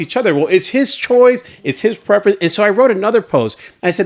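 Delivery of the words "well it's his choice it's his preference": mock bickering commenter. Husband voicing commenters fighting among themselves, mockingly. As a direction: play the snippy commenter arguing.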